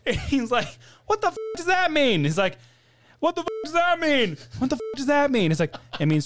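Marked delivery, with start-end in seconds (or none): 1.1-2.2 high, quick exasperated relay; high-pitched mock indignation; mock relay shout. Relaying film dialogue guy to guy. 3.2-5.5 high-pitched mimicked go-between; mock-indignant high relay; mock relay shout. Relaying film dialogue guy to guy.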